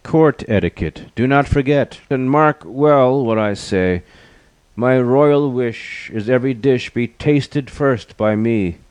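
high, proclaiming royal voice; lion monarch. A narrator's reading. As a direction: lay down the law as a lion king. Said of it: "The lion stood and said".

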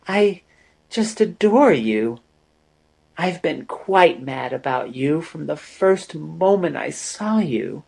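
Amory gushes her devotion; adoring. A narrator's reading.

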